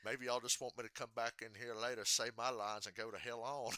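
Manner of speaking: Ward Burton. Retold or imitated. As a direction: put on a thick rural Virginia accent. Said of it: "then he's like".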